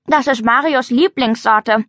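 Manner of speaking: talking through ice cream; words round a spoonful; mouth full. Acted. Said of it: "sagte sie mit vollem Mund".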